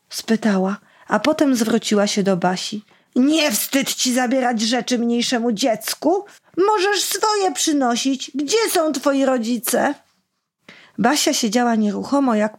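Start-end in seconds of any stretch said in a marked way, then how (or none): 3.2-9.9 higher, slow reproachful lecture; scolding mother. Acted. Kacperek's mother scolding Basia, reproachful. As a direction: talk down to the girl.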